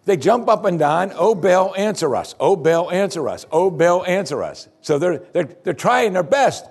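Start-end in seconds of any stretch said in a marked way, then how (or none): 1.1-4.7 calling to Baal. Acted. Prophets jump and call.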